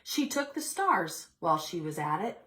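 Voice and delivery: put-on expressive read-aloud to children; storybook reading voice; story narration. A narrator's reading. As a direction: read it like story time for little kids. Teacher reads picture book aloud.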